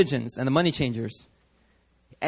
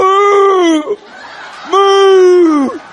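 higher, louder hammed-up moo with a laugh; mock cow; 14 semitones higher, 10 dB louder than usual. Innocent cattle mooing as Jesus drives them out. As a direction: play the confused cattle for laughs. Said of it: "They're like".

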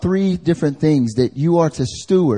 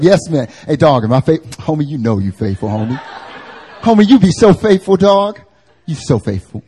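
lightly lowered, loud buddy voice; deeper dude voice; 5 dB louder than usual. Retold or imitated. Male friends hype each other up, in a mildly deeper voice. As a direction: play a hyping homie, a bit deeper. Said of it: "made a deeper voice".

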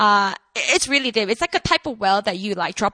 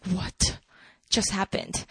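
stunned; 6 semitones lower, 8 dB quieter, slower than usual. Acted. Acting the woman's stunned reply.

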